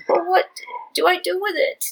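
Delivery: high, loud, whiny wail. Acted. Cheng Ling wailing at his Shifu, high and loud. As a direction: wail it like a helpless child. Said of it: "Cheng Ling wailed".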